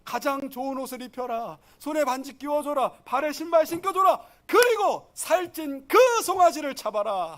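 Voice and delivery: rejoicing father giving orders; joyful father. Acted. Preacher as the father welcoming his son home, joyful. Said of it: "기뻐하면서".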